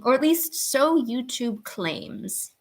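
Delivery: slow, breathy whisper; whispered aside. Real, not acted. Streamer doubts viewer count, slow whisper.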